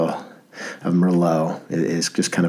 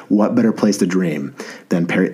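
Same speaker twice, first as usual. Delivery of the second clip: amateur French accent, lightly put on; creepy French voice. Podcaster quoting the old movie, mildly creepy French voice. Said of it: "might have been so creepy what I just did".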